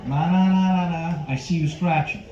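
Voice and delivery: singsong taunt, first burst loud; lightly voiced De Niro mocking; De Niro teasing. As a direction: playground taunt in a De Niro hint. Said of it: "my impression of Robert De Niro".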